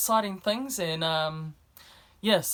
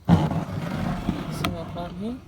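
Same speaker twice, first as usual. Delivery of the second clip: playful show-off voice; 5 dB louder, much slower than usual. Pretend. Showing off plant, drawn out.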